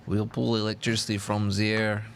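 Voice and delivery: put-on Serbian accent broken by laughter; laughing Serbian accent. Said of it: "Serbian accent?".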